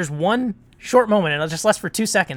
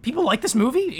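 higher, laughing confusion; laughing disbelief; 7 semitones higher than usual. Retold or imitated. Fan recalls rewatching the scene, laughing in disbelief. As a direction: react like you can't believe it. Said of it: "I was like".

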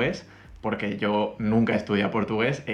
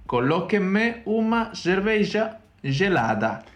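slow, higher mock Portuguese; hammed-up Portuguese accent, stretched out; 8 semitones higher, much slower than usual. Shown as a demonstration. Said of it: "por ejemplo, diría".

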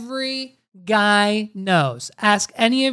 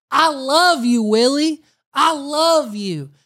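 lightly acted confession, pitched up; lovestruck Austin; 5 semitones higher, slower than usual. Austin confessing to Willie, a hint of lovelorn pleading. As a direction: declare love in a raised voice, slowing at the end. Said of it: "And Austin says".

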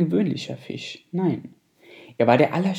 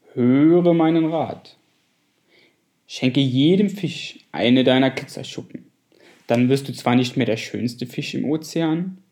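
deep voice; 4 dB louder than usual. Acted. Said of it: "mit tiefer Stimme".

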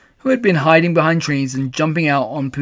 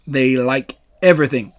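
cheerful; 3 dB louder than usual. Acted. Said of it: "said Tigger cheerfully".

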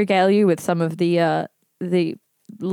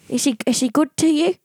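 put-on old lady voice; 5 semitones higher than usual. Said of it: "pretend to be Luna".

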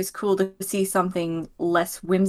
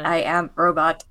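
robot voice; 4 dB louder than usual. Pretend. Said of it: "occasional robot voice".

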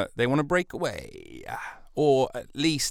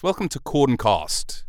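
podcast intro; 3 semitones higher, 5 dB louder than usual. Pretend. First take of invented podcast greeting.

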